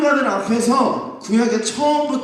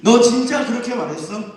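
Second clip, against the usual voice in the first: challenging demand; 2 semitones higher than usual. Acted. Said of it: "따지기 시작해요".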